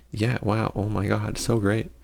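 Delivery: mock-excited but flat; deadpan sarcastic gushing. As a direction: lay the sarcasm on dryly. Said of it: "I sense a little bit of sarcasm".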